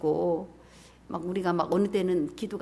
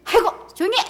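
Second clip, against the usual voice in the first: scolding hush; 11 semitones higher, 6 dB louder than usual. Acted. Crowd hushing the blind men.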